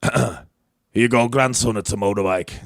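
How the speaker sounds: Scottish accent that slips back toward English; attempted Scottish accent. Shown as a demonstration. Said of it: "do you wanna hear my accent update".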